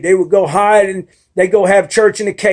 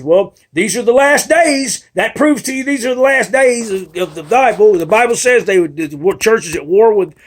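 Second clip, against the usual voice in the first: mother's warning; 5 semitones higher than usual. Retold or imitated. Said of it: "and she says".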